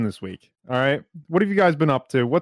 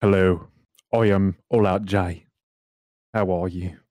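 lower, slow put-on voice; deep Cody Plays impression; 6 semitones lower, slower than usual. Host introduces himself on the podcast, deep slow put-on voice. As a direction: drop the voice low and drag each word out. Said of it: "It's like a deep Cody Plays".

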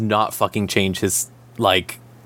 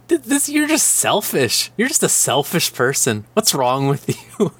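mock scolding; 4 semitones higher than usual. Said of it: "he's just like".

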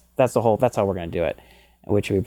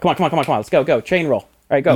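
hurrying someone; 3 semitones higher, faster than usual. Retold or imitated. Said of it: "I'm like, impatient taskmaster".

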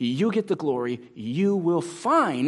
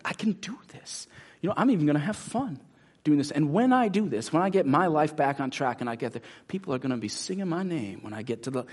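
hammed-up self pump-up, breathy start; mock athlete pep talk. Preacher mocks athletes talking themselves up, hammed confidence. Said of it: "this is how we talk".

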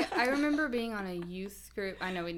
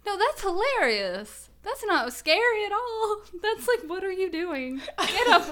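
laughing; 9 semitones higher, 7 dB louder than usual. Real, not acted. Laughing at the Godzilla scenario.

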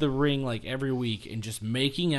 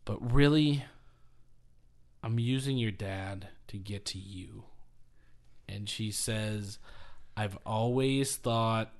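sultry seduction; 5 semitones lower, 8 dB quieter than usual. Retold or imitated. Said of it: "she goes".

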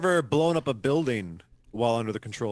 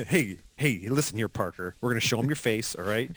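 softer, confiding mock pep talk; acted Iron Man; 2 semitones lower, 4 dB quieter than usual. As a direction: lean in and coax him quietly. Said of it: "He's like".

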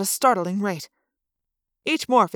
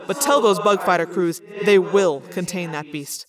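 threatening commander; 2 semitones lower than usual. Acted. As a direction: threaten the crew with being eaten. Visser Three threatening his crew.

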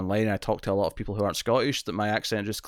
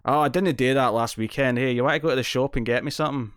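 mock broad Scottish chat; lightly exaggerated Scottish slang accent; full Scottish slang. Imitating Scots who go full slang, broad Scottish accent. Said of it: "people who are going full".

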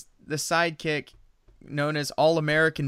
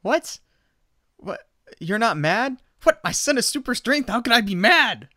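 much higher, giddy disbelief; delighted dad squealing over his son's strength; overjoyed dad; 7 semitones higher than usual. Retold or imitated. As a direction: gush like a proud kid at heart. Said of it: "He's like".

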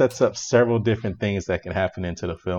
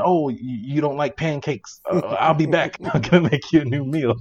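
high, hurried, stammering offer; mock eager host; 6 semitones higher, 3 dB louder than usual. Imitating Dale offering the scared guest a new breakfast, high and eager. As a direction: play him high and clueless, with a chuckle. Voices Dale misreading her scream.

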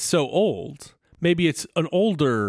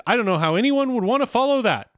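lightly voiced MC, pitch lifted; a hint of stage announcer; emcee; 5 semitones higher than usual. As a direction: introduce the next act like a host. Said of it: "and the M C says".

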